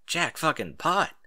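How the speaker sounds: slow, punched out word by word; savoring the jackpot, each word hit; emphatic. Acted. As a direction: land each word like a win. Thrilled at being paid.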